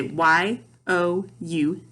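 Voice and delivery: letter by letter with gaps; spelled out. Shown as a demonstration. Teacher spelling a sight word for pupils, spelled out. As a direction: spell it out, Y, O, U, each letter apart. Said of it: "we spelled it and blended it".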